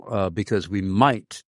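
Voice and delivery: might leaned on a little harder; emphasizing the word might as a possibility; stress on might. Real, not acted. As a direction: give might a slight extra push. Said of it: "I emphasize the word might".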